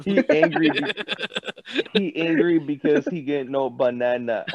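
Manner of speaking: lightly voiced angry ape in broken English; angry monkey. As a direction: grumble like a simple-minded monkey, playfully. Voicing an angry cartoon ape.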